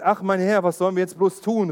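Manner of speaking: panicked servant calling out; alarmed cry. Acted. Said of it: "rief er".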